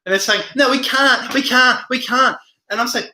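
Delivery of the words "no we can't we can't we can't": higher-pitched mock protest; mimicked refusal. Streamer acting out critics saying they can't, mimicked protest. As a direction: imitate stubborn opponents refusing.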